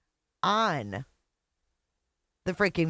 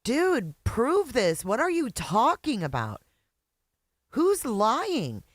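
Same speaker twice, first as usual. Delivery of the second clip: indignant challenge; 5 semitones higher, slower than usual. Real, not acted. Streamer demanding proof from the clip, indignant and raised. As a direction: call her bluff, incredulous and raised.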